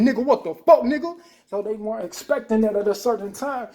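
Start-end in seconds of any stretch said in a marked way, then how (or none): 0.0-1.2 high, loud mock yell; retold yell. Retelling how he yelled at the crybaby, loud and heated. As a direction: shout it like he's squaring up. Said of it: "I said".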